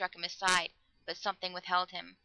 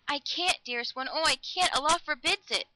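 high, louder, agonised cry; anguished refusal; 7 semitones higher, 4 dB louder than usual. A narrator's reading. Girl forbidden to say her lover's name, anguished. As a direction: cry out helplessly, building in volume.

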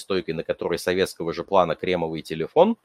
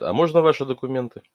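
guard voice; 6 semitones higher, faster than usual. Acted. Guard suddenly asks.

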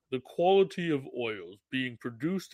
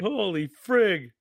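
embarrassed exclamation; 2 semitones higher, 6 dB louder, slower than usual. Real, not acted. Embarrassed at missing the joke.

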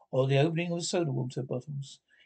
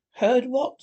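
higher, louder startled question; sudden anxious jolt; alarmed; 7 semitones higher, 7 dB louder than usual. A narrator's reading. Toad turning pale at Rat's hint, alarmed. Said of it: "turning rather pale".

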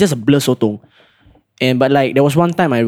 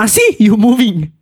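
high, mocking "Ah, see, you moving"; gloating sergeant; 6 semitones higher, 3 dB louder than usual. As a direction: catch him out with a smug jab. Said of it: "Then I was like".

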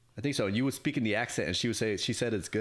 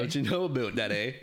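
jokey Canadian accent echoing a friend; caricatured Canadian accent; mock Canadian accent. Shown as a demonstration. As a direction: play up the Canadian "about" and "eh". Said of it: "That's a good Canadian accent".

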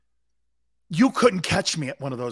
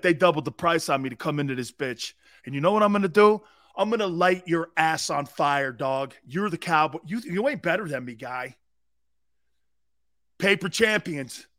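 trash talk. Pretend. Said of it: "Be like".

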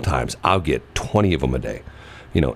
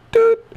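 high piercing beep; high beep imitation; 5 dB louder than usual. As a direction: chirp like a phone tone. Imitating phone tone.

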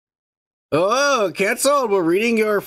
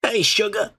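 put-on old lady voice; 5 semitones higher than usual. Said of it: "Like an eighty-year-old lady".

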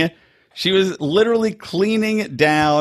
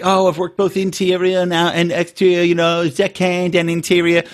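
mocking Izzy; 3 semitones higher than usual. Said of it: "She's like, she's like".

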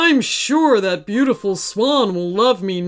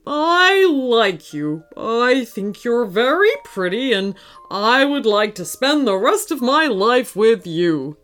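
nervous confession. Acted. Hippo confesses after gulping.

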